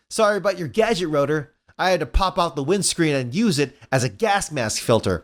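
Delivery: lightly voiced cocky hero; a hint of cartoon hero; breezy Sonic. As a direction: toss off a casual apology.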